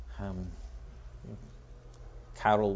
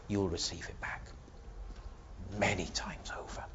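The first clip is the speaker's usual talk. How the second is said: solemn quote fading; 3 semitones lower than usual. Acted. Solemn quoting of Jesus' promise.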